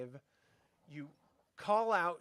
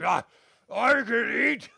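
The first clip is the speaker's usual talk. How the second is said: slow, louder gleeful monster; higher, greedy happy ogre; excited hungry ogre; 6 semitones higher, 11 dB louder, slower than usual. Acted. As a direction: savour the thought of food. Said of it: "He's like".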